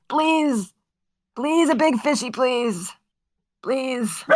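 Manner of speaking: high, eager begging; pleading. Real, not acted. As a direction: beg the game for a big fish. Begging for a good catch.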